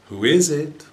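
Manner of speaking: high squawky parrot call; a parrot calling at the door. A narrator's reading. Parrot calling out to the visitor, high voice. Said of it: "This parrot only knew how to say one thing".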